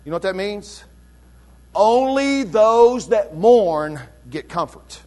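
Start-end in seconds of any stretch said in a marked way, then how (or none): 1.7-5.0 slow, every word leaned on; emphatic. Shown as a demonstration. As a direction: stress each word of "Only those that mourn get comfort" slowly. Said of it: "it's emphatic".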